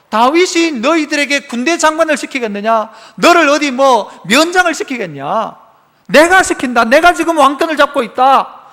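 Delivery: a touch of an angry king scolding. Retold or imitated. King scolding his silent people, mild mock anger. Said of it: "사울이 화가 나가지고".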